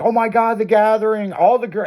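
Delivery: high-pitched imitation of thrilled buddies; mock excitement. Friends reacting to news of the Gathering, imitated excitement.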